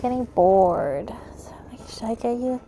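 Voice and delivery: unvoiced whispering aside; whispered. Real, not acted. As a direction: drop to a breathy whisper.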